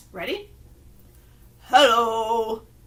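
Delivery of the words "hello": much lower voice, louder. Leading friends in saying hello as low as they can, low voice. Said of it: "low voice".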